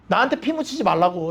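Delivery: ordinary delivery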